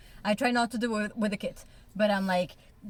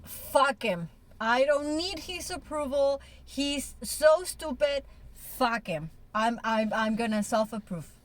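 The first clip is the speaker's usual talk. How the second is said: playful defiance; 2 semitones higher than usual. Retold or imitated. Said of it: "a moment of self-parenting and I'm like".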